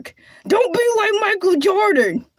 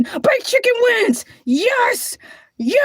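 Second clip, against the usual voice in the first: celebrating; 4 semitones higher than usual. Real, not acted. Celebrating the vote result.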